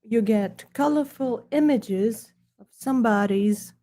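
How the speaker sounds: lightly put-on snooty British accent. Presenting his book to viewers in a hammed-up snooty British accent. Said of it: "British accent to deliver".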